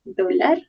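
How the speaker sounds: Dólar with the stress on the first syllable, DÓ-lar; teacher correcting a student, stressing the first syllable. Shown as a demonstration. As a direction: hit the DÓ in Dólar. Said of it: "Hacemos énfasis en la O".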